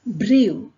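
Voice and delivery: "brew" said loudly with a long oo ending; pronunciation demo. Shown as a demonstration. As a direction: model "brew" as a stretched bree-oo, falling. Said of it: "see how we pronounce this word".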